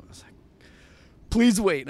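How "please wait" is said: high, loud urgent plea; pleading. Retold or imitated. Friend begging the doorman to hold on, pleading. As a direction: call it out as a retold desperate request. Begs the doorman not to leave.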